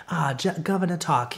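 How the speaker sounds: prim and proper. Retold or imitated. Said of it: "all prim and proper".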